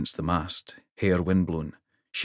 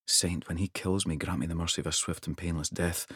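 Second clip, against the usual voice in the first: hushed, dreading inner prayer; quiet prayer; 7 dB quieter than usual. Acted. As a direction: pray under your breath. Wolf's fearful silent prayer.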